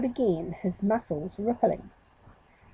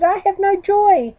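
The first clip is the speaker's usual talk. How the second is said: high, loud goat bleat; 11 semitones higher, 10 dB louder than usual. Acted. Goat running back to the monkey in distress, bleating. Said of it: "he bleated".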